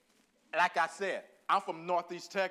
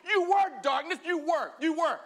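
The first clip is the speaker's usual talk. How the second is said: You were darkness, with were punched high and loud; stress on were; 10 semitones higher, 9 dB louder than usual. Acted. Preacher stressing to the church that they once were darkness, with You were hit hard. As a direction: hammer the past tense in You were, then You were again with You hit hard. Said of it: "Past tense".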